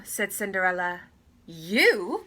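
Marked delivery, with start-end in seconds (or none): 1.5-2.2 mocking surprised cry; a sneering disbelieving "You?"; scornful cry. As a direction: stepsisters scoffing at Cinderella. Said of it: "cried the stepsisters".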